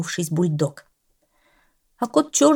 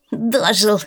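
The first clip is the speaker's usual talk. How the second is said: caustic; 4 semitones higher, 4 dB louder than usual. A narrator's reading. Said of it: "чей-то язвительный голос".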